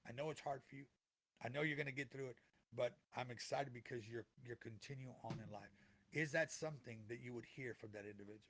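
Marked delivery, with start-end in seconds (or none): 0.1-5.7 soft, tender words from beyond, softer; gentle voice of a lost loved one. Pretend. A lost loved one comforting the grieving listener, softly and tenderly. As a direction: speak as the missed person, comforting. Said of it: "are they gonna say".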